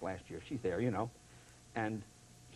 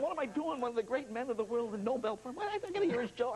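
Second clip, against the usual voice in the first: imagined indignant thought. Retold or imitated. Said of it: "He's gonna think".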